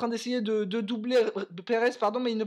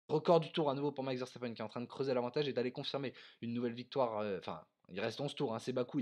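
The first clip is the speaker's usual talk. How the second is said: much softer and lower calm aside; quiet commentary; 9 semitones lower, 10 dB quieter than usual. Real, not acted. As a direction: drop to a quiet confiding tone. (commentaire calme et à voix basse)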